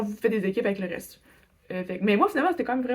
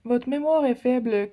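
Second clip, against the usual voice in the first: slow reading aloud; 2 semitones higher, 3 dB louder, slower than usual. Real, not acted. Reading her phone's warning message, slow and dry. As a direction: drag out the words slowly.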